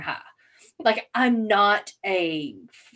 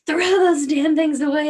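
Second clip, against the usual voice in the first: fed-up order; 7 semitones higher, 7 dB louder than usual. Retold or imitated. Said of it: "And I was like".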